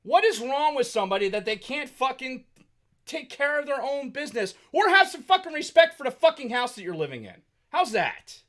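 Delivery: high, loud outraged rant, shouting at the mess; furious rant. Retold or imitated. Venting about the filthy house, furious high shout. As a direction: rant at the house like it owes you respect. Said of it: "I'm like".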